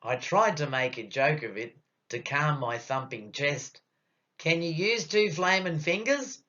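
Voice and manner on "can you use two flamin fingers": higher-pitched, pitiful plea; pitiful request. Acted. Nervous patient joking with the doctor to calm himself, pitiful. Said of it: "was my pitiful request".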